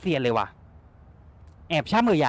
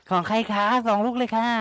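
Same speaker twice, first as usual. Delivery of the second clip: lightly voiced polite granny, higher; playing grandma; 7 semitones higher, 3 dB louder than usual. Gamer voices grandma asking about the two items, lightly mock-polite. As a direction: ask like a prim old lady. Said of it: "รับบทเป็นคุณยายนะครับ".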